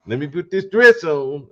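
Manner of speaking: voicing a singer, laughing and mocking.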